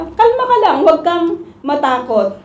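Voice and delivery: high mock grandma hushing; a grandma's gentle calming, imitated; Grandma soothing. Grandma calming scared grandchild during the sirens, high mock voice. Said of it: "sasabihin ni Lola".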